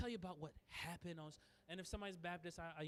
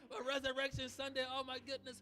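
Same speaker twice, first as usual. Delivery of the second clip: gushing greeting; 4 semitones higher, 4 dB louder than usual. Acted. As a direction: gush as if thrilled to run into a friend. Acted gushing greeting to Angel.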